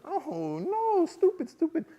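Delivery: high, strained mock self-scolding; hammed-up mortification; appalled self-reproach. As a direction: moan and berate yourself. Berating himself after blunder.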